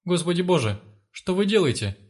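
mother crying out to the thugs to spare her son; wailing. Acted. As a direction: beg them to spare the child. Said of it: "завопила мать".

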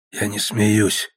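slow, wheezing rasp; wounded Egor rasping to Silin, slow and hoarse. A narrator's reading. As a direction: force the words out hoarsely, very slow. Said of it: "прохрипел Егор".

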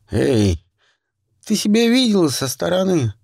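loud. Acted. Friend confronts her.

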